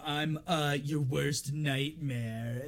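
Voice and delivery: drawn-out, menacing demon; slow demon voice. Retold or imitated. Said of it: "he's like".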